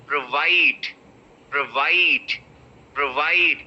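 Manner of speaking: Provide with a very short pro, stress on VIDE. Shown as a demonstration. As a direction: clip the pro, land on VIDE. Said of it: "The pro is very short".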